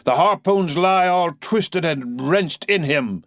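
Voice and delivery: put-on a commanding old captain, slow; Ahab, slow and weighty. Captain confirming to his harpooneer, slow. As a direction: weigh each word over the crew. Ahab's voice.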